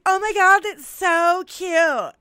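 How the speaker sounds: high, loud, slow squeal; mocking bachelorette guests; gushing party girl. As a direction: gush it like a giddy bridesmaid. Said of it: "everybody's like".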